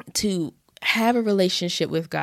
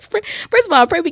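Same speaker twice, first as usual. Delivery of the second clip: high, loud burst of laughter; laughing; 13 semitones higher, 7 dB louder than usual. Real, not acted. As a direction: break into real laughter and push on. Bursts out laughing mid-sentence.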